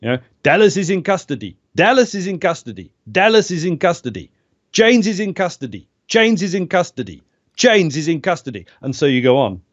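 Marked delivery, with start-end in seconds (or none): 0.4-4.3 repeated game voice line, slightly higher; voice-line takes. Shown as a demonstration. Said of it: "you do two or three takes of every line". 4.7-8.7 repeated game voice line, slightly higher; voice-line takes. Shown as a demonstration. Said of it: "you do two or three takes of every line".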